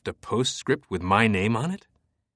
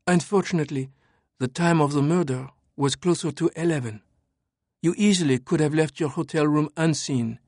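higher, cool French woman; 5 semitones higher than usual. Acted. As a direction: calmly lay out the facts as her. Sophie voiced throughout.

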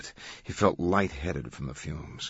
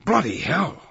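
high, loud cry of shock; startled shout; 10 semitones higher, 5 dB louder than usual. A narrator's reading. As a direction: shout it as if jumping back. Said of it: "he shouted, jumping backward".

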